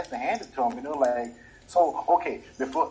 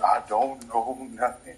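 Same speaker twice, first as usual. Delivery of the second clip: mock servile voice, words dragged out slowly; slave mode; slower than usual. Friend mimics slave-mode advice, mock servile. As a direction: play dumb and subservient, slowly. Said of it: "You gotta go in slave mode".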